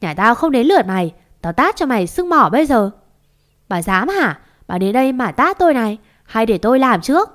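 heated, challenging, punching the threats; angry threats. Acted. Two quarrelling women threatening slaps, angry and defiant. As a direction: dare her to try it.

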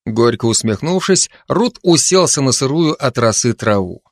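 normal talking voice

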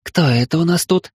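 amused goddess. Acted. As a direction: tease the intruder sweetly. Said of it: "рассмеялась Астарта".

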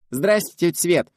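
put-on high, loud child greeting; voice shooting up. A narrator's reading. Girl greeting the family friend in a high excited voice. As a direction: squeal a hello to the guest. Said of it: "взвился Юлькин голос".

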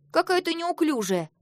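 mock her clumsiness; scornful. A narrator's reading. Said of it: "возмутилась Хлоя". (насмешливо)

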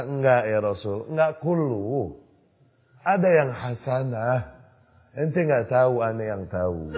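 slow, smug mock contradiction; mock objection. Innovators brushing off the Prophet, slow mocking retort. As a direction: drawl out the know-it-all excuse.

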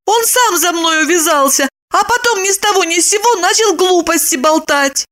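put-on high, girlish indignant voice; a young woman complaining, pitched high; Lipochka's voice. Young woman complains to Roman, high and indignant.

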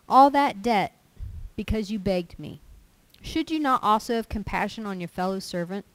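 loud, forceful scripture reading; preaching scripture. Acted. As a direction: proclaim the parable to the congregation. Reads the parable aloud with force.

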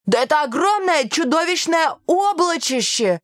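put-on high, excited kid voice; awestruck child. A narrator's reading. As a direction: marvel like an astonished pupil. Amazed pupil describes huge cloud.

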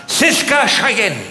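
slow drawn-out call of "Siska Cheyenne"; a slow drawn-out hint of a mother calling "Siska Cheyenne"; calling the child. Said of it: "Und sagt".

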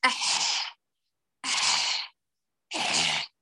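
"أح" with a strained, grating ح from too much pressure; faulty ح in "أح" that scrapes, almost a cough; overpressed ha. Shown as a demonstration. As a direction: push "أح" hard so the ح rasps in the throat. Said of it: "اسمعوا الثالثة".

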